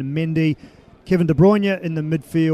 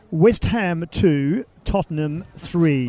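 slow, measured classified results reader; slow BBC announcer with spaced-out scores; much slower than usual. Shown as a demonstration. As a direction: read out the football results like a formal BBC announcer. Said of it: "in my best B B C voice".

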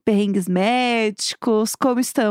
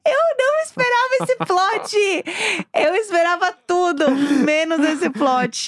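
surprised; 6 semitones higher than usual. Real, not acted. Reacts laughing to the punchline.

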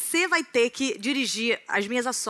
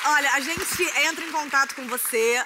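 game show host; 6 semitones higher, slower than usual. Acted. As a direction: hype it up like a TV host. Plays an audition host.

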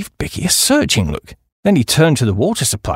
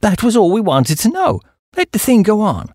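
higher-pitched hearty go-ahead; 6 semitones higher than usual. A narrator's reading. Chappie satisfied that the deal can proceed, hearty. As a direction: cheerily wave the business on. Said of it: "said the chappie heartily".

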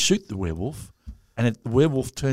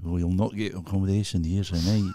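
Scottish local; 4 semitones lower, 3 dB quieter than usual. Retold or imitated. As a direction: lower mock Scottish accent. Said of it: "We were up in Scotland".

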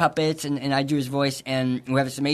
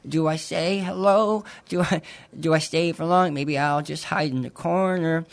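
anxious llama voice; 3 semitones higher than usual. Acted. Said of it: "he's freaking out because he's like".

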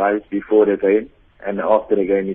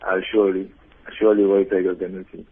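smiling; faster than usual. Real, not acted. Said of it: "I can hear the smile in your voice there".

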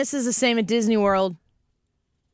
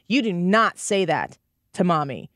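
firm, measured mom voice, slower; stern mom; slower than usual. Retold or imitated. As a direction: scold the toddler slowly and firmly. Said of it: "I was like".

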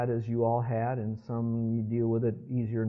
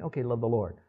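listless shrug; 2 semitones lower, 3 dB quieter than usual. Acted. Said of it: "more of a passion than".

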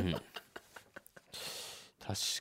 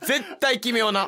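put-on cutesy high girlish promise; gal voice; 9 semitones higher, 4 dB louder than usual. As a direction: coo it like a gyaru girl. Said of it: "ちょっとギャルみたいになってる？".

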